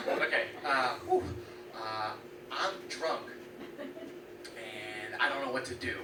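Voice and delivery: put-on slow, soft drunken mumble; hammed-up drunk sister, slow and soft; drunk slurring sister. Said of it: "drunk sister voice".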